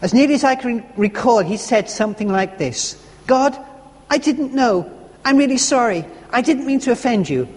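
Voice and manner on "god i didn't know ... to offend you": tearful prayer. Retold or imitated. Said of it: "More sobs".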